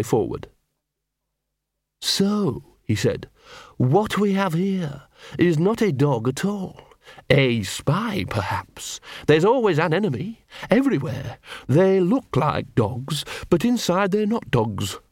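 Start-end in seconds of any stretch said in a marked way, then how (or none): 2.0-2.6 high, sneering poodle; lofty little dog; snooty poodle voice. A narrator's reading. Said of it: "said the poodle". 3.8-15.0 high, slow, sneering poodle; menacing lofty little dog; snooty poodle voice. A narrator's reading. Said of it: "said the poodle".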